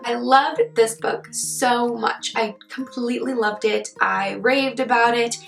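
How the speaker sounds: hoarse, husky sick voice; talking through a sore throat. Real, not acted. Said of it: "in my sick voice today".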